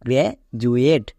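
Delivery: গ্র্যাজুয়েট with গ্র্যা first, then জু; demonstrated pronunciation. Shown as a demonstration. Teacher repeats the word for students, demonstrated pronunciation. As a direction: model গ্র্যাজুয়েট, the d said as জু. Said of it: "এর উচ্চারণ কি দাঁড়াবে".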